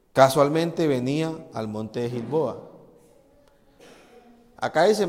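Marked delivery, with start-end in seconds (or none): 0.1-2.6 "casualmente" drawn out slowly and stressed, hinting at the lie. Shown as a demonstration. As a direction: lean hard on "casualmente", slow. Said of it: "en el versículo seis dice". ("casualmente" lento y enfatizado, con sospecha)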